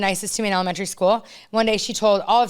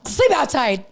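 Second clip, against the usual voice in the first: mock strict mom; 4 semitones higher, slower than usual. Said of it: "I'm all".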